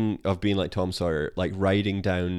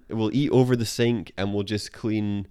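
Homer voice; 2 semitones higher than usual. Retold or imitated. Homer voiced in a retold scene.

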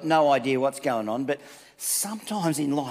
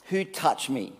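gentle Jesus. Retold or imitated. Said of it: "he probably didn't say it like that".

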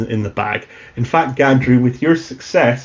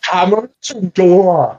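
a touch of Gino's voice; 6 semitones higher, slower than usual. Acted. GM voices Gino.

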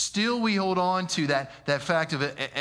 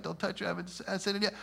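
hushed Jesus; 4 semitones higher, 7 dB quieter, much faster than usual. Retold or imitated. Jesus speaking gently to Mary.

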